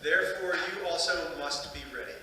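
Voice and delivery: measured, solemn Gospel reading with pauses; scripture reading. Acted. Priest reading the Gospel to the congregation, measured scripture reading. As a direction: read it out formally, phrase by phrase.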